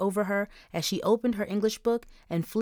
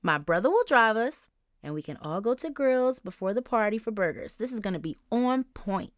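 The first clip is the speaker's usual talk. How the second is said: put-on excited girl voice; 3 semitones higher than usual. Charisse excited about the plan.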